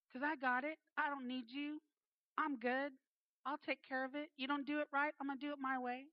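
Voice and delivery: lightly acted brush-off, insisting on no help; self-sufficient attitude. Self-sufficient daughter turns down Father's help, mock defiance.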